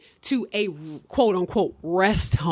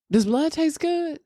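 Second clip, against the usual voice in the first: mock detective voice; 10 semitones higher than usual. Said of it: "the detective was like".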